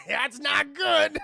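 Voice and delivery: high, loud, drawn-out through laughter; real laugh inside the words; laughing alarm. Real, not acted. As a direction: blurt it while cracking up. Laughing reaction to retold line.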